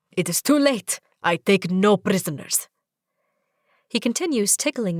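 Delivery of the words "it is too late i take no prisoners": mock menacing. Zahid mock conqueror.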